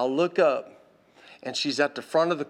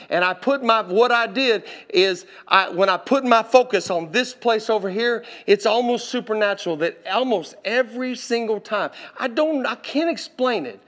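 higher-pitched preacher retelling a testimony; animated sermon testimony, voice lifted; earnest preaching; 7 semitones higher, 4 dB louder than usual. Retold or imitated. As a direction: press each repeated phrase with rising fervor.

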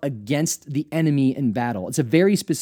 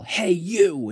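higher-pitched, restrained call to someone; mock soldier's yell; 5 semitones higher than usual. Soldier hailing a field worker, mild mock yell. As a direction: call out like a soldier, without full volume. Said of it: "you hear a soldier yell".

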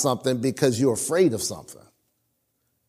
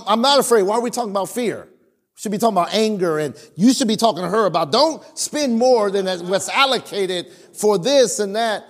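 higher, hammed-up indignant denial; indignant protest; 4 semitones higher than usual. Pastor retells arguing with the Lord about his wife's spending, mock indignant and higher. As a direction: play the stubborn young husband arguing back. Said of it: "I was bent out of shape".

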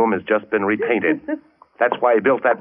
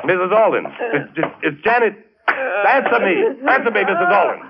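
calling out; 9 semitones higher than usual. Acted. Husband calls into the hollow wall.

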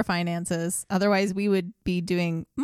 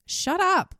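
high, louder snapped command; mock yell at a ghost; 11 semitones higher, 3 dB louder than usual. Scaring off a ghost at night, mock shouted. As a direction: shoo the spirit off with a mock shout. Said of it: "just be like".

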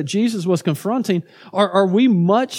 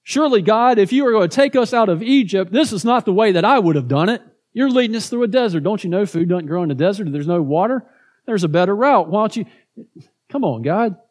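mildly hammed-up complaint to God; lightly acted indignant grumble; mock grumbling. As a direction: imitate a crowd grumbling, a little raised and pressing. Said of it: "They grumbled".

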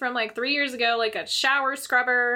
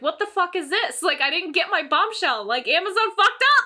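upset; 8 semitones higher, 5 dB louder than usual. Retold or imitated. Retold upset at missing gift.

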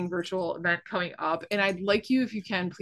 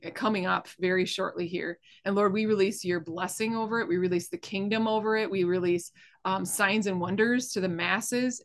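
earnest spoken prayer over the event; prayer of blessing. Acted. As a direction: lift it up to God, steady and sincere.

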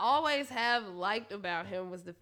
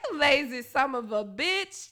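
loud mock exclamation; 6 dB louder than usual. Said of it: "y'all was like".

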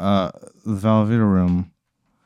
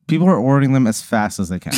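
excited; 2 semitones higher, faster than usual. Real, not acted. Excited fast description.

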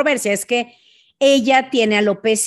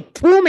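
"¡pum!" seco de micrófono; golpe imitado; 8 semitones higher, 6 dB louder than usual. Retold or imitated. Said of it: "y hasta se oye". (onomatopeya de impacto)

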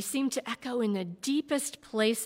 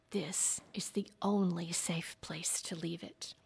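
whispered back. A narrator's reading. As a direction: breathe it out in a hush. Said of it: "he whispered back".

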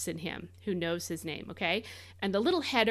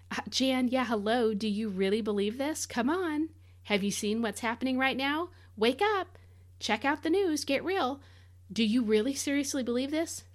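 mocking skeptic; 4 semitones higher than usual. Skeptic mocking the speaker's faith.

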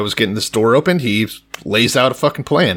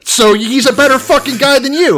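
mock teasing jab; 13 semitones higher, 5 dB louder than usual. Teasing co-host, mock accusation.

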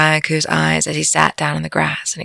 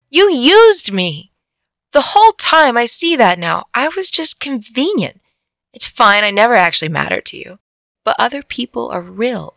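hurt outburst; 6 semitones higher than usual. Acted. Orayaku accusing Uma of using him, hurt and angry. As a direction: let the hurt burst out at her.

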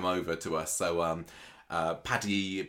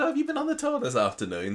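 mimicking her question. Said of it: "and she said".

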